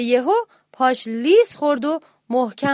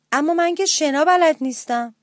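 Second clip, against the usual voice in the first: higher-pitched anxious objection; worried protest; 5 semitones higher, 4 dB louder than usual. Acted. Little mouse to parrot captain, in a worried protest. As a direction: protest it with worry.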